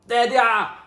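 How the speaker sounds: high, loud lookout call; shout. Acted. Doobie shouts, spotting the mob, loud. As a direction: spot the enemy and shout it. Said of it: "Doobie shouted".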